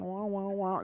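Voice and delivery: lightly imitated muffled-trombone talk; Charlie Brown's mom. Newcomer hearing the meeting as meaningless noise, imitated droning. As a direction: drone wordless wah sounds. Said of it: "like Charlie Brown's mom talking".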